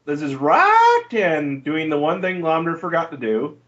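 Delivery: usual speaking voice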